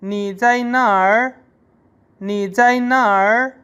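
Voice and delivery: slow, rising on जाई; teacher shows variant; alternate Chinese form. Shown as a demonstration. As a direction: model the variant. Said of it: "या".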